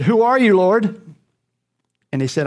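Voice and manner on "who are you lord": stammering Saul. Retold or imitated. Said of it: "Saul stammered and said".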